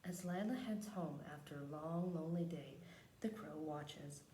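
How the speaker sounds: measured picture-book reading; read-aloud narration. Acted. Teacher reads a picture book to the class, measured storytelling. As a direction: read the story out unhurriedly, phrase by phrase.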